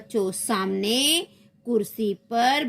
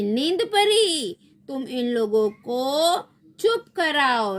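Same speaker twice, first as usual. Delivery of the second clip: night queen command; 4 semitones higher than usual. Acted. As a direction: draw out the fairy's name commandingly. (धीमा, ऊँचा रानी का आदेश)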